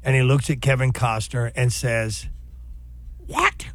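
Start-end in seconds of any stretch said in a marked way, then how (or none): 3.3-3.7 high, slow, strained dying-man voice; Sean Connery impression. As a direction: squeeze it out like a dying man gurgling blood. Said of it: "zone into this character".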